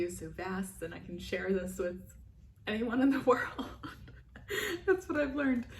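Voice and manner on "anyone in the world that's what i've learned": higher, louder, laughing with joy; real happy gush; excited. Real, not acted. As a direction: beam it out to everyone. Gushing about sharing with world.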